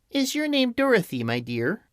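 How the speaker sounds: put-on high, gentle old lady asking; lightly voiced kindly old witch. A narrator's reading.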